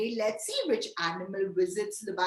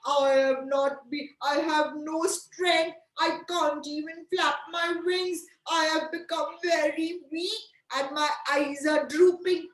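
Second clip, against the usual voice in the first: lightly voiced weak owl; a hint of a pitiful pretend owl; sick owl character; 4 semitones higher than usual. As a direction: complain as an ailing bird, slightly raised pitch. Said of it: "Owl says".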